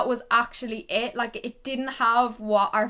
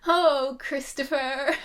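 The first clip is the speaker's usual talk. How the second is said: mock swooning sigh; 3 semitones higher, much slower than usual.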